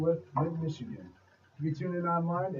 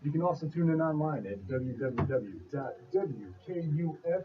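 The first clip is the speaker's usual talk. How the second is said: radio voice. Acted. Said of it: "are you doing that radio voice".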